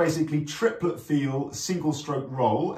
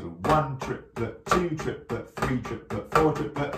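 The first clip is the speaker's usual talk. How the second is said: spaced-out count in time, each number on the beat; rhythmic count; slower than usual. Shown as a demonstration. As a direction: count "one triplet, two triplet" slowly and evenly. Counting aloud along with the drumming.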